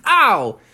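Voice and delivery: high yelp of pain; cartoon ow. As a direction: cry out from a blow. Bubby hit by stiff arm.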